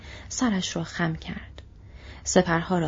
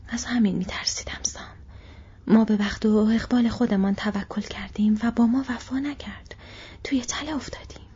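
frightened whisper; 3 semitones higher than usual. Acted. Frodo's frightened whispered words.

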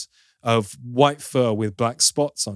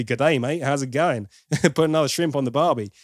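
put-on Australian accent; 3 semitones higher than usual. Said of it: "at points it was very nearly".

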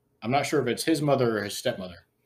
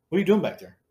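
higher, louder mock mom's question; voiced mom; 5 semitones higher, 5 dB louder, faster than usual. Mom questions stepson behind couch, lightly imitated, higher and louder. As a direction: lightly voice a puzzled mom, pitched up.

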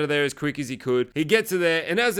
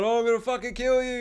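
retold yelled threat; 7 semitones higher than usual. Heath yelling out at Dean, as a high mock yell. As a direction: imitate a high-pitched threat without real volume. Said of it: "He's yelling out".

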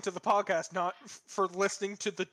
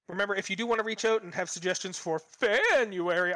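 spooky voice. Pretend. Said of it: "I don't know why I'm saying it like it's spooky".

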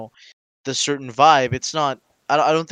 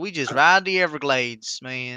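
put-on Florida Southern accent. Co-host playing a law bystander, Florida Southern accent. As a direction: lay on a Florida good-old-boy twang. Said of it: "ending this in Florida Southern".

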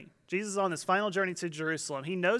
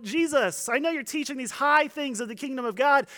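raised, pleading call to a teacher; mock calling out; 5 semitones higher, 3 dB louder than usual. Man in the crowd asks Jesus about inheritance, mock calling out. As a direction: imitate a heckler making a request, easing off at the end. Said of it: "he's yelling out".

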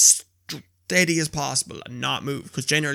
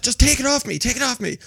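sleep talking; 9 semitones higher than usual. Retold or imitated.

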